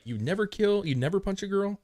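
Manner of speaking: imitating a comic's incredulous stand-up bit; Bill Burr impression. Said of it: "What's that Bill Burr comedy? He's like".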